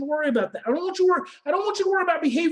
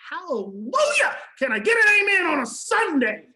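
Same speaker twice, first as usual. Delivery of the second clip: preacher's call; 2 semitones higher, 4 dB louder than usual. Real, not acted.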